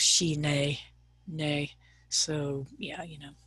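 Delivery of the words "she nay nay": "she, nay" said as two separate syllables, the last repeated; pronunciation demo. Shown as a demonstration. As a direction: sound out "she" like English she, then "nay" rhyming with day. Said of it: "the pronunciation is kind of".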